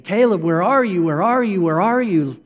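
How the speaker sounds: dad searching the hotel, calling his son. Retold or imitated. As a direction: call out while hurrying. Father searching, calling louder.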